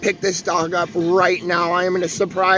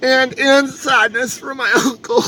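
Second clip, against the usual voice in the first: crying for joy; slower than usual. Real, not acted. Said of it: "I'm crying for joy right now".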